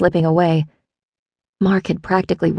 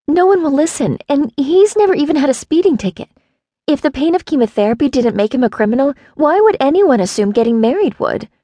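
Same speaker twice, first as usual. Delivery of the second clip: high, tearful rambling plea; crying; 9 semitones higher, 3 dB louder than usual. A narrator's reading. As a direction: beg through tears, voice high. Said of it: "And cried".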